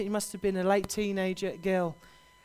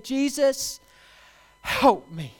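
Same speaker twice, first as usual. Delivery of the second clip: high loud plea on Jesus, help me; pleading cry; 5 semitones higher, 6 dB louder, much slower than usual. Retold or imitated. Kneeling woman begging Jesus for help, loud high plea. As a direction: beg from your knees, loud and high. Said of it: "she fell on her knees and she said".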